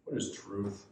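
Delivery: low, soft throwaway question; quiet, offhand dismissal; dismissive Pilate. Acted. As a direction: toss it off as if it's nothing. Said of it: "Throws it off".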